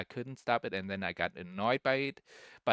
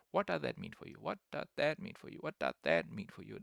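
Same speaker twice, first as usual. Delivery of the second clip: mockingly repeats the question, softer; mocking repetition; 6 dB quieter, faster than usual. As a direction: parrot the question back with scorn. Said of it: "that is such an unnecessary question".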